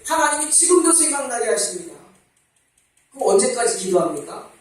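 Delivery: normal talking voice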